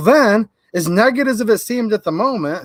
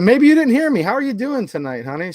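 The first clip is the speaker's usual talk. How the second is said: repeating the question louder and higher; 4 semitones higher than usual. Retold or imitated. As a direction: say it again so she can hear. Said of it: "I said".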